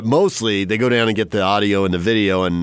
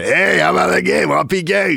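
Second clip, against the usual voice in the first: excited fan greeting; 10 semitones higher than usual. Retold or imitated. Fans greeting a recognized broadcaster.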